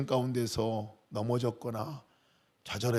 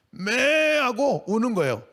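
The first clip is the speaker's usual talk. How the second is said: sheep bleat; 8 semitones higher, slower than usual. Shown as a demonstration. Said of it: "소리가 맞는지 모르겠는데 하여튼간 비슷한 소리지".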